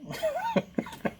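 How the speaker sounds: a high squeaky cackle in character; imitating a Black American driver's laugh, high up; high mock laugh. Driver laughs at Big Mike, high squeaky laugh.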